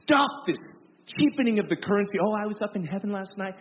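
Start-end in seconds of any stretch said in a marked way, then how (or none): 2.2-3.5 mock breezy boast. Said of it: "I'm like".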